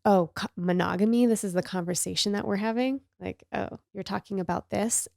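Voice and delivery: lightly imitating a sarcastic jab, a bit quick; mildly mock-sarcastic, tossed back. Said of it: "kinda sarcastically threw back at me".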